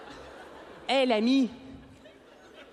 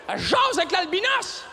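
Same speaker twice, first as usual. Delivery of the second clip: moquerie; 6 semitones higher than usual. Pretend. Moquerie des autres, plus aigu.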